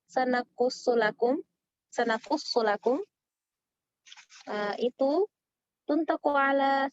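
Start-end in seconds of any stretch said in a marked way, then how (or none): 0.1-3.0 sanakussulakum read slowly and clearly; slow recitation. Shown as a demonstration. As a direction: say sanakussulakum deliberately, twice. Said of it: "pembagian huruf yang ketiga". (ucapkan sanakussulakum perlahan dua kali)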